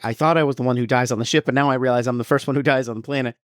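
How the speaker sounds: quick, mildly panicked retelling; mock freak-out. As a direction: imitate someone freaking out, talking fast. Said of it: "he's freaking out as they land".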